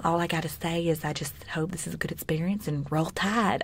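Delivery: lightly put-on old Southern grandmother accent; imitated Southern accent. Podcaster retelling the Bachelorette's champagne toast, imitated Southern accent. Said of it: "She sounds like an old Southern grandmother".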